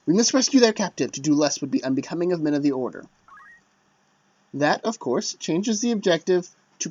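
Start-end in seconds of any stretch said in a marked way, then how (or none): 0.1-3.0 noble knight declaration. Acted. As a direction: proclaim it like an honorable knight. Voicing the chosen knightly line.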